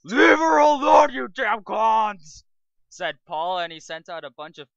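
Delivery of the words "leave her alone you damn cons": screamed, high and loud; hammed-up hero's battle cry; heroic shout. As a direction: yell it to save her. Paul shouting at the clones.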